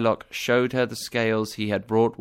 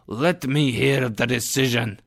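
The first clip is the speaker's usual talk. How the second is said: shouted; 2 semitones higher than usual. A narrator's reading. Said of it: "he shouted".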